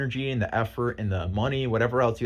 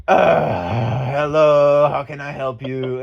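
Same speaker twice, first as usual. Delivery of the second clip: switching to English; 6 dB louder, much slower than usual. Retold or imitated. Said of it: "this guy on the phone go".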